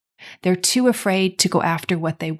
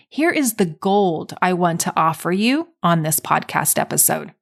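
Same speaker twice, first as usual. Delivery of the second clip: a touch of drama on the gold; more dramatically; 4 semitones lower than usual. Shown as a demonstration. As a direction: make it sound like a big reveal. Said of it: "say that a little more dramatically".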